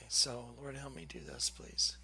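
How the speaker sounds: very low, soft plea under the breath; hushed, tearful prayer. Real, not acted. Asking the Lord for help to go on, hushed plea. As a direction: pray quietly to yourself, voice nearly gone. Murmured prayer while fighting tears.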